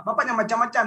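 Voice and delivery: retold angry threat. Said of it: "saya dengan emosi gitu".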